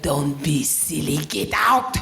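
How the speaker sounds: a light take on a dismissive mum; imitating mum. To the daughter, a mother waving her off, lightly mimicked. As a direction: brush the daughter off like mum would. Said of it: "She'd be like".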